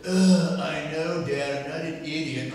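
loud mock groan into a mild protest; exasperated son. Son brushing off dad's passport reminder, exasperated. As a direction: imitate a son fed up with dad's nagging. Son's exasperated retort, acted.

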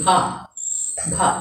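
"bha" with a puff of air; aspirated bha. Shown as a demonstration. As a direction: let air flow out on "bha". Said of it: "a little air is flowing out".

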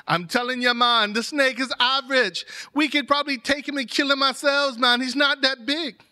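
insistent, dismissive retort; acted scoffing rebuttal. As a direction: play the doubter arguing back. Acted quarrel, dismissing the snake.

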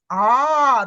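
long A with the mouth opened wide. Shown as a demonstration. Teacher shows how the mouth opens, long loud A. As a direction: open the mouth wide and hold A. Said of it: "А ну подивись, як я говорю".

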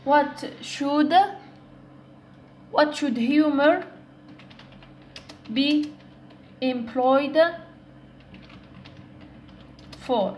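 slow, with long pauses between words; word-by-word dictation. Shown as a demonstration. Teacher building a question for learners, word by word.

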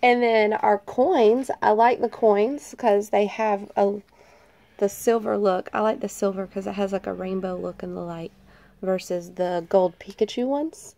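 stuffy nasal voice from a cold. Real, not acted. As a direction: talk through a blocked nose. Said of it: "Don't mind my nasally sounding voice".

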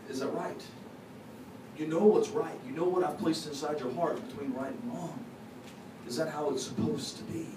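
softly voiced God, lightly imitated; gentle questioning. God asking His child about right and wrong, gentle questioning.

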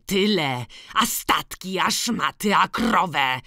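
accusing list. A narrator's reading. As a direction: count off each grievance at him. Wyliczanie w kłótni. (gniewne wyliczanie)

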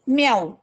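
mild meow; cat meow. Shown as a demonstration. Teacher meows lightly for pupils. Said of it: "अशा पद्धतीचा आवाज मांजरीचा".

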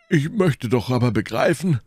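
high, put-on complaining character voice; insistent Porthos. A narrator's reading. Porthos insists on being told.

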